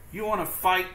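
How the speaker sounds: high, loud, picking a fight; grouchy ladybug. Acted. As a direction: taunt them to fight. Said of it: "the grouchy ladybug said".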